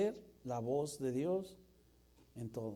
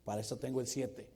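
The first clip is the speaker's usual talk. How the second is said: softer, lower soothing dad; calm dad; 4 semitones lower, 5 dB quieter than usual. Acted. Acted father calming his son, softer and lower. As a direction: reassure the kid easily.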